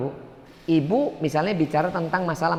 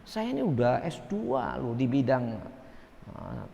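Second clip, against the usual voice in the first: boastful know-it-all; 3 semitones higher, 3 dB quieter than usual. Retold or imitated. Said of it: "Nah, ngomong kayak ini".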